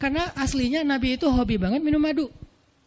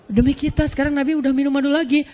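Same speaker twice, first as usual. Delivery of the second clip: boastful exclaiming; 2 semitones higher, 5 dB louder than usual. Retold or imitated. Wives boasting loudly.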